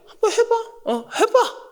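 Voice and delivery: laughing, confident "go ahead, try it"; confident dare. Shown as a demonstration. A speaker daring someone to try, with a laughing confident dare. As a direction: tease them with a sure laugh. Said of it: "이렇게 얘기할 때는".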